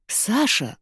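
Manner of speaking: high, startled gasp of his name; gasping surprise. A narrator's reading. Ira recognises Sasha in disguise, gasping in shock. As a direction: gasp as you recognise him. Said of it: "ахнула Зайцева".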